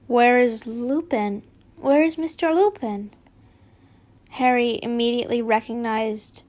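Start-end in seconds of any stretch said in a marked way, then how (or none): 0.0-3.1 Dumbledore. Acted. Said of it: "Dumbledore's voice".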